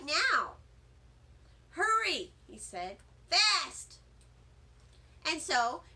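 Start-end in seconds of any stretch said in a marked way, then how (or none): 1.7-2.3 urgent. Acted. Teacher urgently phoning nurse. 3.3-4.0 urgent. Acted. Teacher urgently phoning nurse.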